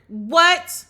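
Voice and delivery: loud, high What?; stunned and outraged; shocked disbelief. Real, not acted. Reacting to the firing.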